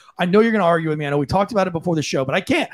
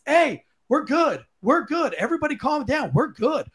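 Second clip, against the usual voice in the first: calming demo; 7 semitones higher, 3 dB quieter than usual. Shown as a demonstration. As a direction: settle everyone down gently. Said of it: "wave your hands".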